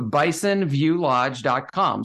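slow, separated words for clarity. Real, not acted. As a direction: spell out the web address word by word so it's understood. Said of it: "Say it again slower, 'cause I almost didn't understand you".

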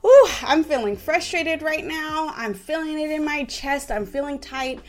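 put-on name the frustration calmly for the child; mild demo of calm self-awareness; modeled self-talk. Shown as a demonstration. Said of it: "model and say out loud".

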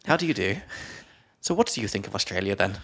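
clipped English "How do you do?", then quick; lightly hammed-up English gent; posh English accent. Shown as a demonstration. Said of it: "lean into my English accent".

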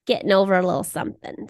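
stuffy, congested nasal voice. Real, not acted. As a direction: talk through a blocked nose. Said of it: "apologies for the nasal tone".

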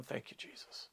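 hushed, whispered thank you; quiet thanks. Retold or imitated. Lying in ambulance while medics work, whispered gratitude. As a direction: keep the thanks under your breath. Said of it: "I'm not doing it out loud".

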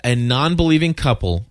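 "non-believing" and "couple" as separate words with pauses; staccato air quotes. Shown as a demonstration. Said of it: "one word at a time with dramatic pauses".

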